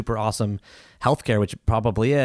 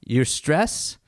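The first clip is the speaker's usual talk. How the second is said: very slow, careful; 2 semitones higher, much slower than usual. Retold or imitated. Doctor in Japan advising a worried foreign patient, very slowly and carefully. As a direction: imitate slow, halting broken English. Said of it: "very, very slowly, very, very carefully".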